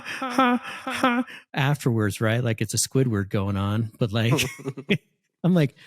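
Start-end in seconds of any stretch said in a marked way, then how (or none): 0.1-2.2 donkey bray. Retold or imitated. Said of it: "they'll do the ha".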